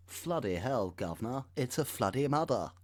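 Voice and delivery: a music-hall cockney cabbie, lightly; mock cockney. Joking about the flooded county in a hammed-up cockney accent.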